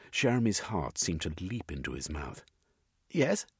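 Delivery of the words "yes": squeaked yes, much higher; a nervous little squeak. A narrator's reading. Startled Jeremy answering the sergeant, high squeak. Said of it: "he squeaked".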